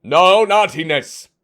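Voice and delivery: a playful telling-off, building; mock scolding. Playful warning opening the stream.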